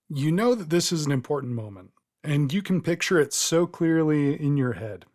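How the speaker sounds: measured storytelling with suspenseful pauses; game master narration. Acted. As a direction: draw the player into the vision. Game master sets the scene.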